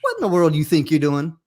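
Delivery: lightly voiced doubting family member, mock demand; disapproving relative. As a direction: challenge them to their face, hammed up. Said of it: "they will ask you this right here".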